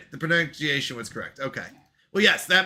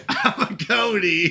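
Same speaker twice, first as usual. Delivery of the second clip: laughing; 3 semitones higher, slower than usual. Retold or imitated. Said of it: "I'd say it like".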